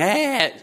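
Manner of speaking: high mock shriek of alarm; retold scream. Woman faced with escaping python, mock scream. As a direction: imitate a frightened passenger crying out. Acting out terrified woman passenger's cry.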